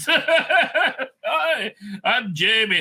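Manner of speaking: mock Scottish accent with a laugh; Jamie. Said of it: "Scottish accent".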